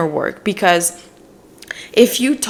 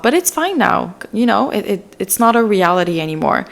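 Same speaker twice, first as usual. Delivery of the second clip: soothing inner parent. Pretend. Reparenting her younger self, gently reassuring. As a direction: comfort yourself like a loving mother. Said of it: "Be like".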